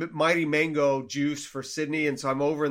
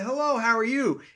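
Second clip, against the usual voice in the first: awkward hello; 7 semitones higher than usual. Retold or imitated. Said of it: "as awkward as it gets".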